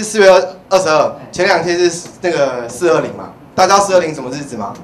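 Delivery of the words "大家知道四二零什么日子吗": ordinary delivery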